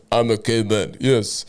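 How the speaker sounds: slow, cocky mock Russian accent; a lightly put-on Russian swagger. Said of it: "Where did your Russian accent come from?".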